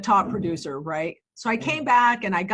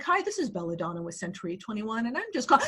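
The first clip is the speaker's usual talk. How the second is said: phone voice; 3 semitones lower, 6 dB quieter, faster than usual. Retold or imitated. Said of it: "I'm doing, like, the phone voice".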